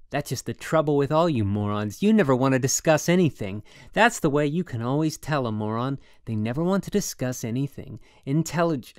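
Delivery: loud, heated ranting; practically yelling. A narrator's reading. Holden ranting at his roommate, loud yelling. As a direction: rant at him full volume. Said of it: "I was practically yelling".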